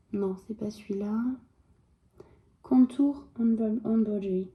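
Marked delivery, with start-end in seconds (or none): 2.6-4.5 a French speaker's mock English accent, light; self-mocking English accent. Shown as a demonstration. Reading an English stitch name to her viewers, in a joking English accent. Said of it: "Avec mon bel accent anglais".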